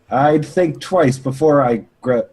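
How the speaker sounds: first stab at a tough warning, pitched too high; wrong character voice. Acted. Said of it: "that's not the voice".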